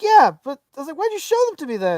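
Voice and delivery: retold exasperation. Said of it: "I was so mad".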